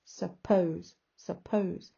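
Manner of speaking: "suppose" with weak "sup", strong "pose"; unstressed, stressed. Shown as a demonstration. Teacher showing unstressed then stressed, syllable stress. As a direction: lean on second syllable of "suppose". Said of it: "It's got unstressed, stressed".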